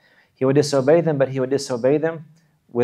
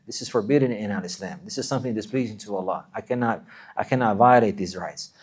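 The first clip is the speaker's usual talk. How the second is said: kind, humble voice. Shown as a demonstration. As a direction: say no kindly, humbly, like a loving child. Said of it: "he will say it in a kind manner, in a kind voice, in a humble manner".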